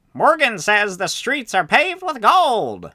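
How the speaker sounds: high, loud parrot-prospector character voice. Reading a parrot's line from an unused pirate-movie script, in a parrot prospector voice. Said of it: "it's my parrot slash prospector voice".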